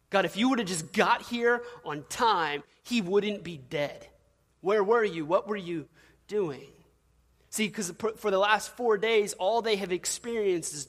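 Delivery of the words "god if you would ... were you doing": mock exasperated sarcasm, a little louder; sarcastic. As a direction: demand it with a sarcastic edge. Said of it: "Kind of sarcastically".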